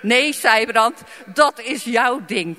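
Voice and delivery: loud, slow, firm no to her husband; sharp refusal. Retold or imitated. Wife snapping at husband about evangelism, loud and firm. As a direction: push him off, clearly annoyed. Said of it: "veel minder lief dan nu".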